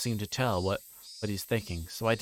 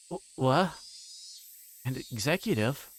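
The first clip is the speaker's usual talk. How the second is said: startled stammering what, pitched up; stunned; 4 semitones higher than usual. Acted. Keiichi reacts to the yakuza news, stunned stammer. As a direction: blurt it out in shock.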